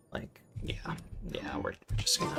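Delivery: a real whisper trailing off; soft, unvoiced whisper. Real, not acted. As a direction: drop into a whisper. Fades to whisper.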